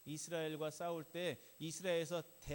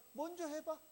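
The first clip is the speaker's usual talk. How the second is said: high, loud, confident taunt; raised-voice dare from a confident challenger; confident challenge; 9 semitones higher, 6 dB louder than usual. Acted. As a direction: dare them loudly to go first, pitched well up. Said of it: "여유가 있으니까 어떻게 합니까?".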